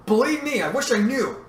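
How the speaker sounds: projected over a din; shouting over noise. A narrator's reading. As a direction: call out to be heard over engine noise. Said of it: "shouted to be heard above the noise".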